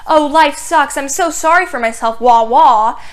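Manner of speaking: hammed-up self-pity ending in a loud wah wah; mocking whine. Heather mocking Veronica on camera, whiny and sarcastic. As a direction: whine it like a fake crybaby. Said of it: "where Heather was mocking Veronica".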